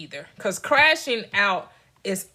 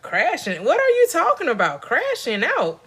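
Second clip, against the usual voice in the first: retold bafflement; 5 semitones higher than usual. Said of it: "I'm like".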